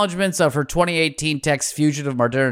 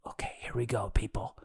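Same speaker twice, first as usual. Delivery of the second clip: hushed aside whisper; 6 semitones lower, 13 dB quieter, faster than usual. Real, not acted. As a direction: breathe it as a quiet aside. Host aside before awkward part.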